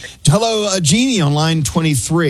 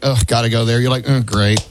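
mock reluctance; 6 semitones lower than usual. Imagined reluctant traveller to dull city.

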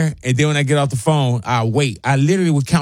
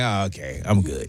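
much lower and softer, letting it drop; a flat, quiet letdown as if giving up; deflated retort; 9 semitones lower, 8 dB quieter than usual. Retold or imitated. Deflated after no follow-up answer.

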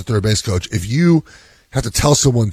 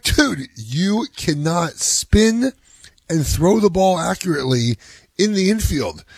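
higher and very slow, spelling it out; dad slowly correcting his boastful son; emphatic dismissal; 8 semitones higher, slower than usual. Retold or imitated. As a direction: lay it out word by word, like explaining to a kid. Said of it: "I'm like".

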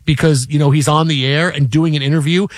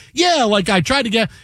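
put-on cocky New York accent; 5 semitones higher than usual. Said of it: "the way he's talking is like".

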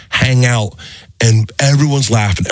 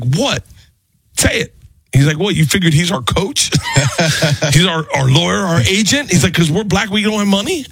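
much higher, mock-outraged speaker; indignant speaker; 8 semitones higher than usual. The speaker confronting the waitress, high mock outrage. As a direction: call her out, pitch climbing. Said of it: "and he was like".

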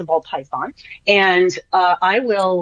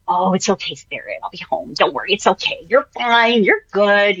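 mommy voice. Retold or imitated. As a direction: comfort a sad puppy gently. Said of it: "I still have my mommy voice with them".

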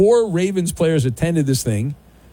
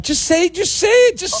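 insistent urging; 14 semitones higher than usual. Real, not acted. Urging caller to give pick.

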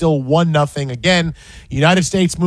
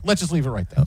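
"Let's just leave it right there" repeated lower and softer, under the breath; softer aside; 4 semitones lower, 6 dB quieter, faster than usual. Real, not acted. Host cutting off his own tangent to co-host, softer and lower. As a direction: drop it down to a muttered aside.

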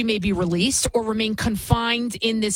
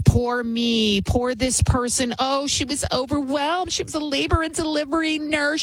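mock pity; 5 semitones higher than usual. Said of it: "everything's an excuse".

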